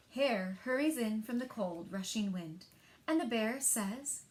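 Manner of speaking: put-on lively read-aloud for young children; story narration. A narrator's reading. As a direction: tell it like story time at the library. Librarian reads picture book aloud.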